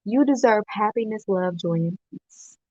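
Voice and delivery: "You deserve happiness" settled back down, sincere; calmer sincere. Acted. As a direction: say it gently after the outburst. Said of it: "I was a little passionate there".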